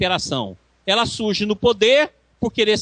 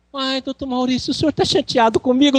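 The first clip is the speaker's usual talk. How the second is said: anxious caller; 5 semitones higher than usual. Retold or imitated. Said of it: "Tem pessoa que liga pra mim e fala".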